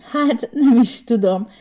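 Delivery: hesitant, slow and drawn out; unsure. Acted. Girl unsure how to answer the star, hesitant. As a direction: trail into doubt, taking time. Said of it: "bizonytalanodott el Kinga".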